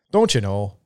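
mock Minnesotan catchphrase; teasing Minnesotan, a laugh in it; Minnesota accent. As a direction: put on a jokey Minnesota accent. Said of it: "that is a unique accent".

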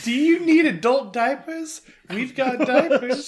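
perky store mascot voice; bright squeaky sing-song welcome. Pretend. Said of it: "Why does she sound like this?".

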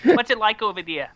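hammed-up starstruck excitement; excited accent admirer. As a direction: gush over the exotic visitor, calling a friend over. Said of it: "Australian guy and you come to America".

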